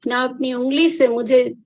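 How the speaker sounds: measured poem reading with long pauses; unhurried verse recitation; poetry recital. Acted. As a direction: recite line by line, letting each phrase land.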